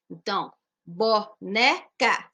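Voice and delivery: "boneca" said slowly, broken into syllables. Shown as a demonstration. Teacher repeating the syllables of "boneca", slowly. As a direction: pull "boneca" apart slowly for the class. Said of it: "sílabas".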